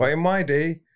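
half-hearted go at a Yorkshire accent; attempted Yorkshire accent. Shown as a demonstration. Podcaster trying a Monty Python line, attempted Yorkshire accent. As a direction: try a Yorkshireman's accent, not very well. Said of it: "I can't do the accent, but I'll try".

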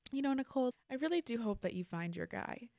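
mock concern, starting high; imitating a concerned relative. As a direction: imitate a well-meaning brother-in-law's doubtful hope. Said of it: "why do you sound so concerned".

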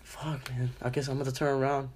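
softly muttered resigned thought; inner thought. Retold or imitated. Student voicing a thought about turning around, resigned and quiet. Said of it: "and in my head".

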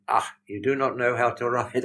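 lightly mimicked German lady's exclamation. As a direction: exclaim in careful, full words as a German woman. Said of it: "there's a big German lady".

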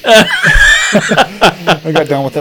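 talking through a real laugh. Real, not acted. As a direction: laugh while telling it. Laughing while retelling the ending.

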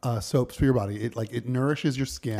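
measured podcast ad read; deliberate announcer-style plug; sponsor read. Acted. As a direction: slowly announce the episode's sponsor.

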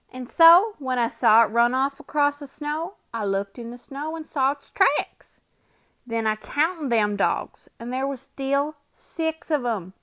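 Bill's voice. Acted. Bill argues about the tracks.

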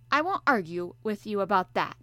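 a sleepy sailor answering the professor; gruff harpooner. Acted. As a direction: play the bluff Canadian harpooner, hearty and loud. Ned Land voiced.

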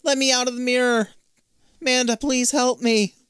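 high, mock-panicked plea; imitated desperate cry. Beth begs Amanda from inside the mirror, imitated desperate cry. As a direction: plead as if trapped, without full screaming. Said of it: "hearing Beth scream from the other side".

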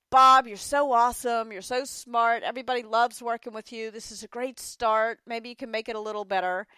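butter him up and hurry past the bad part; gushing praise. Manager imitating her own gushing praise to Bob.

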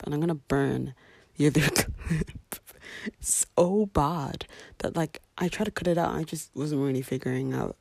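groggy just-woke-up voice; sleepy morning voice, a bit husky; sleepy husky good morning. Real, not acted. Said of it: "I sounded probably very groggy".

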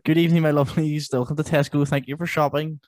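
supermarket announcement. Retold or imitated. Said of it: "that TikTok it does those".

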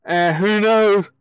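yawning through it; words stretched by a yawn. Real, not acted. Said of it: "Excuse me for yawning".

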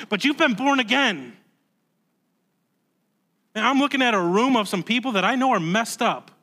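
preacher building fervor from the pulpit; impassioned preaching. Real, not acted. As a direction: press the congregation to remember. Preaches with raised intensity.

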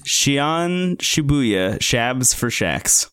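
silly mangling. Pretend.

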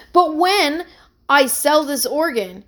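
eagerly. Acted. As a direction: jump in keen and hopeful. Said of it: "he said eagerly".

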